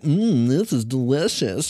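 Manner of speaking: slow, pleased with a smile; smiling. Acted. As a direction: savor it with a smile. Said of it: "she says with a smile".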